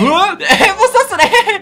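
startled yelling. Real, not acted. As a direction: yell in real surprise with a laugh. Pelted with snowballs by neighbours.

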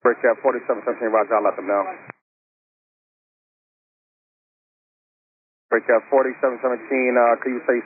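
crackly radio transmission; over a tinny radio link; air traffic control radio. Real, not acted. ATC radio exchange.

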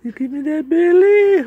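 will the ball to hook, loud and quick; urgent coaxing. Real, not acted. Second take, louder coaxing.

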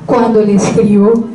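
measured poem reading with pauses between lines; poetry recitation. Acted. Sharing a Spanish poem with listeners, measured recitation. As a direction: read it out line by line as verse.

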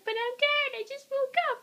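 high, soft sleepy coyote; tired coyote. Acted. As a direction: whine it, half asleep. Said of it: "coyote's all like".

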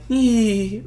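high, thin eerie "ee"; imitated witchy squeal. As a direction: copy a witch-like little squeal. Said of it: "like a fucking witch or something".

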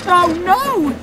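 loud, very high cry of alarm; panicked cry. Acted. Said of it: "Stepney cried".

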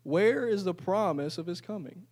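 scoffing sarcastic question. Pretend. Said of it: "I'll put in a sarcastic voice".

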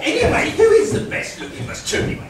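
high, fast, breathless preening; shrill camp pantomime dame. Acted. Dame vanity question.

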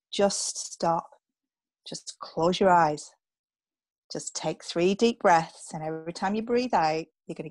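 slow, calm guiding voice; calm coaching. Shown as a demonstration. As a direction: gently talk a panicking client into breathing. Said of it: "I'm just gonna stop you right there".

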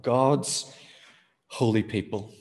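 God's set apart by a pause before holy people; stress on GOD'S. Shown as a demonstration. Preacher repeats the phrase for the congregation, stressing God's. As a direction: lean on God's, wait, then finish holy people. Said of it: "emphasizing the word God".

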